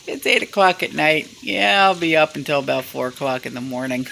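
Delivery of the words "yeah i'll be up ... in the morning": chuckling through the words; laughing. Real, not acted. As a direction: laugh while telling it. Laughing about late night.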